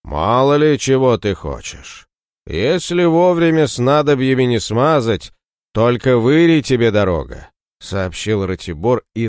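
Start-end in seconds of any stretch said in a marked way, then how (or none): 0.1-7.5 sepulchral voice. Acted. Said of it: "вещавшего страшным голосом".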